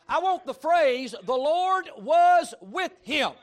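shouted, slow and high, hitting each word; loud emphatic. Real, not acted. Preacher crying out his hoped-for legacy, slow shout. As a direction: cry it out as a life motto. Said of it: "if I'm gonna have a legacy".

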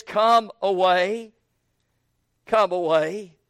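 slow, reassuring come away; secure, gentle. Acted. Shepherd inviting his beloved away, reassuring. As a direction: invite her gently home. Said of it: "He speaks to her securely".

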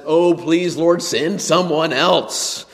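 high, loud pleading whine with a laugh; whiny plea. Retold or imitated. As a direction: beg to be let off, half laughing. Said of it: "and he says".

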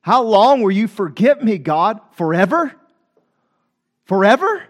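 pointed question, FOREVER lifted at the end; blunt with God. Acted. Preacher voices David's complaint to God, bluntly. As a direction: challenge God with a leaning stress on LONG. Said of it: "ever been that blunt with God".

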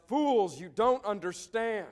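a hint of a frantic man shouting at the crew; yelling man. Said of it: "and he yells".

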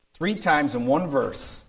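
slow and weighty, every word leaned on; emphatic. Shown as a demonstration. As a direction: press Three times in one verse home slowly. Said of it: "Paul is emphatic here".

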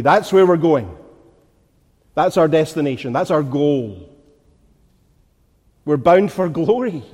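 firm, driving pulpit cadence; insistent preaching. Real, not acted. Preacher urging minds set on things above, insistent preaching. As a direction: pile up each point with mounting conviction.

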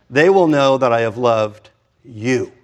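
slow, weighty reading of the whole line; stressed reading. Shown as a demonstration. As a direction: lean on every word, slowly. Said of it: "say it a little louder".

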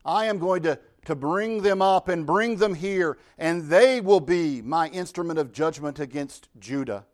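God declaring judgment. Acted. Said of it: "He says".

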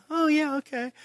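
high, airy mock agreement; mock breezy agreement. Preacher mimicking congregants glibly agreeing, high and airy. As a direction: mimic glib people. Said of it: "everybody's like".

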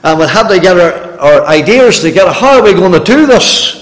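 lightly voiced fussy neighbour; hammed-up mock fuss; mock committee voice. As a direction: neighbour planning a committee, mildly mocking. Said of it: "He says".

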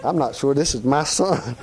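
chuckling through the words; laughing. Real, not acted. Preacher laughing about doubting his own son. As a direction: laugh as you say it.

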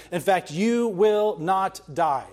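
slow, emphatic "you will not die!"; weight each word of "you will not die" slowly and deliberately. Acted. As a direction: land "not die" like it ends in an exclamation point. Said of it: "it's very emphatically saying to her".

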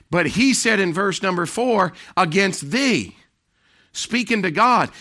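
high, loud preacher's call; forceful preaching. Acted. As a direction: preach it out with full force to the congregation.

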